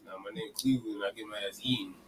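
low-key deadpan. Shown as a demonstration. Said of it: "You should have said it like that".

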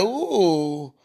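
mock Karma voice. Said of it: "Karma turns her head like".

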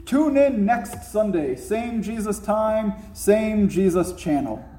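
lightly voiced vintage TV announcer; a hint of a teaser voice-over; old-timey TV announcer. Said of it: "an old-timey T V announcer had said".

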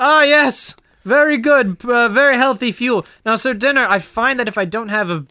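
high, swooning damsel voice; hammy stage actor. Acted. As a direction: overplay a delighted damsel. Damsel greets her knight.

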